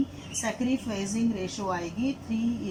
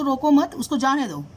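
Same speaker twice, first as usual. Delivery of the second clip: louder "रोको मत", then a separate "जाने दो"; break after मत; 3 semitones higher, 4 dB louder than usual. Shown as a demonstration. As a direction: stress रोको मत as one command, then जाने दो. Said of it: "मत के बाद कॉमा लगाया है". (ज़ोर से "रोको मत", फिर अलग से "जाने दो")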